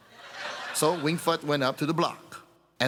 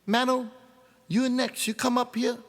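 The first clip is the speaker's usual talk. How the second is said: executioner's voice; 9 semitones higher than usual. Acted. Executioner calls Mano.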